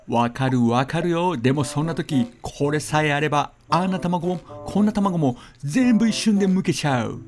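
overeager infomercial host voice; TV shopping host. Pretend. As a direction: pitch it like a dubbed teleshopping ad. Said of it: "百秋テレビショッピングのお時間です".

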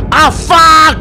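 sudden loud high yelp; startled curse. Real, not acted. Gamer dying on stream yelps, loud and high. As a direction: blurt it out as you die.

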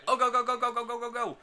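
urging the player on, rising to a yell; excited cheering. Real, not acted. Cheering on a goal attempt.

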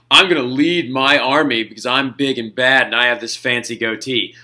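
lightly voiced boastful emperor, a hint of swagger; mock Napoleon the Third. Teacher mocking the French emperor to the class, lightly pompous. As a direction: puff yourself up like a vain little general, only half in character.

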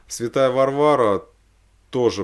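normal talking voice

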